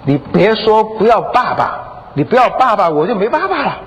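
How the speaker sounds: imitated child begging, rising high; drawn-out, distressed plea to a mother; pleading daughter. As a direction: beg mum not to give up on dad. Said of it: "哀求他的妈妈说".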